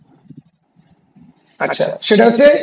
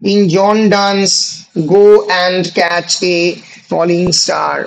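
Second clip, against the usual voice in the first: drawn-out phrases, settling down at the end; very slow repeat for note-takers; slow dictation; 3 semitones lower, much slower than usual. Real, not acted. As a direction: dictate slowly with gaps between chunks. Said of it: "আস্তে আস্তেই বলছি".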